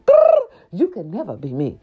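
high, loud sassy diva taunt; mock supermodel diss with a growl; Naomi's taunt. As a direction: taunt her like a supermodel queen. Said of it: "Naomi told her motherfucking ass".

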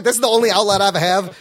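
ordinary talk, nothing marked

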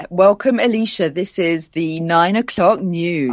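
formal BBC news announcer read; newsreader voice. Pretend. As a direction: announce it like the nine o'clock news. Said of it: "in your best newsreader voice".

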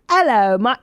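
lightly mocking British pirate accent; fake British pirate. Co-host imitating comic's opener, fake British pirate accent. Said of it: "like a fake British pirate".

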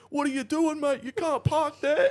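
high, loud yelling bogan; Aussie bloke yelling. Retold or imitated. A local yells at the crashed cop car, high and loud. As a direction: bark it like an outraged local. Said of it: "And then it cuts".

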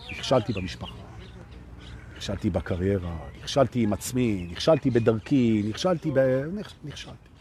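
low, subdued voice of someone listing failures; dejected confession. Retold or imitated. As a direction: imitate a downcast client, trailing away to almost nothing. Voices clients confessing their failures. (חיקוי של וידוי מדוכדך, בקול נמוך)

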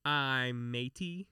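slow, drawn-out southern twang. Shown as a demonstration. Telling a pirate joke on request, southern twang. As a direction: stretch it out with a Southern lilt. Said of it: "give it a little southern twang".

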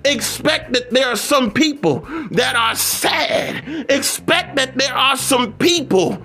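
emphatic preacher's cadence on each repeated phrase; rhythmic, exhorting sermon delivery; motivational preaching. Real, not acted. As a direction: preach it in insistent, building repetitions.

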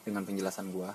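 talking around a cigarette while smoking; words loose around a lit cigarette. Real, not acted. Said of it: "gue sambil ngerokok".

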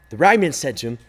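usual speaking voice

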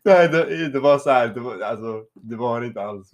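flustered. Real, not acted. Defensive laughing explanation.

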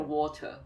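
water with schwa ending; British water. Shown as a demonstration. Recalling the lesson, British water. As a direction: say water without the R. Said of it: "水要念water".

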